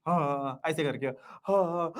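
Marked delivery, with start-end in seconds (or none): 0.1-0.6 put-on "haa, haa" crying; mock open-mouthed wail. Shown as a demonstration. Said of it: "मुंह खोल के रो रही थी". 1.1-1.9 soft fake sobs trailing away; half-hearted pretend weeping; mock open-mouthed wail. Shown as a demonstration. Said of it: "ऐसे होता ना रोती है".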